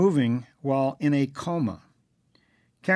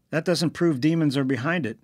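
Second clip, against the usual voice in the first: louder firm statement; steady firm objection; 3 semitones higher, 4 dB louder than usual. A narrator's reading. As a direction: plant your feet on each word. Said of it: "said Ken firmly".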